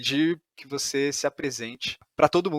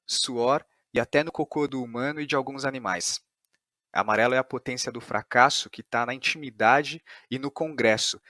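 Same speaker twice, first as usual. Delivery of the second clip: synopsis read aloud. Acted. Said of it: "Isso que eu acabei de ler é a sinopse".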